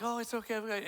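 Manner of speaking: a light, mild Mister Rogers voice. Retold or imitated. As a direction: gently soothe like a kind TV host. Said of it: "talking like Mister Rogers".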